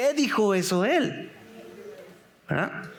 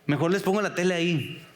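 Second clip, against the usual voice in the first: weary imagined Elí; 3 semitones lower than usual. Retold or imitated. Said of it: "yo me imagino".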